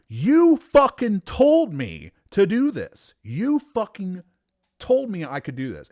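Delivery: high, loud, slow furious yell; screaming match outburst. Retold or imitated. Employee fighting boss over write-up, furious shout. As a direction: hammer each word at full outrage. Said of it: "how many screaming matches we've had".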